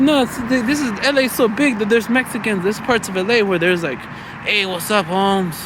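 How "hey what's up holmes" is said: lightly put-on Mexican-American LA accent; horrible Chicano homeboy impersonation. Comedian imitating LA Mexicans, lightly put-on Chicano accent. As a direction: imitate an LA Chicano greeting a homie. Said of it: "that's a horrible impersonation".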